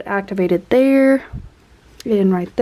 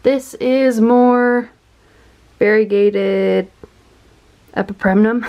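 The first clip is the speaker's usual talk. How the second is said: out of breath. Real, not acted. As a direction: talk while catching your breath. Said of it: "I'm out of breath".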